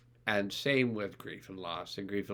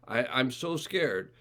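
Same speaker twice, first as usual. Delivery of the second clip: faked fear; 3 semitones higher, slower than usual. Shown as a demonstration. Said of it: "I know I'm faking it a little bit".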